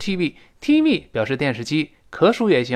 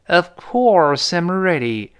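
slow "Of course I'm ready", COURSE punched high; "course" strong with a curled r, falling after it; stress on COURSE; 4 semitones higher, slower than usual. Shown as a demonstration. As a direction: pass lightly over "Of", hit "course". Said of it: "of 轻读一带而过，course重读".

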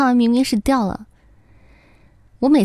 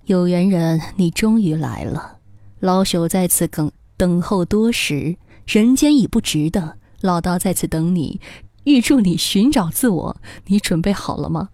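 put-on wise old sage; 3 semitones lower than usual. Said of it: "老道神秘一笑".

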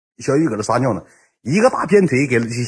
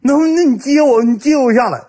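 pitiful begging; 13 semitones higher, 3 dB louder than usual. Retold or imitated. Friend on the wall asking to be caught, pitiful whine. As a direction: beg like a helpless coward.

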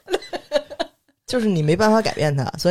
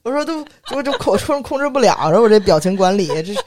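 higher, louder exasperated outburst; exasperated rant; 5 semitones higher, 5 dB louder than usual. Real, not acted. Venting about her self-important boss, exasperated and high. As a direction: rant in disbelief, pitched up.

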